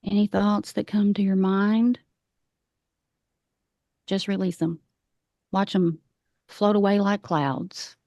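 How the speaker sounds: calm meditation guide with long pauses; guided meditation. Acted. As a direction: lead the breathing gently, leaving space between phrases. Leads a grounding meditation.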